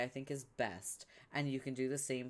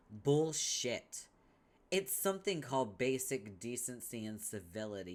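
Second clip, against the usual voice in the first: angry snap. Acted. Vriska snaps back.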